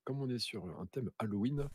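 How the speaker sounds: playful put-on Marseille accent; a touch of Marseille sing-song. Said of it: "j'essaye de prendre un accent marseillais à la con".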